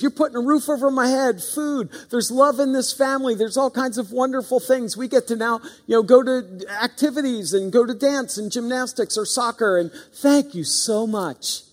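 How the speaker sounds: lightly voiced super appreciative foster kid; mock grateful kid. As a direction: play the too-grateful child parents imagine. Voicing idealized grateful foster kid.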